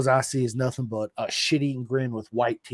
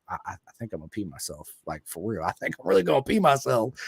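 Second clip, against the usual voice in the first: nervous inner thought; 4 semitones lower than usual. Retold or imitated. Terrified inner thought on the plane.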